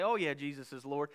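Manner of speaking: a shrugging, quiet "Oh yeah, Jesus is Lord"; lightly voiced careless believer; casual offhand. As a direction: toss it off like small talk. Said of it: "the casual person who might say".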